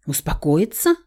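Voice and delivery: usual speaking voice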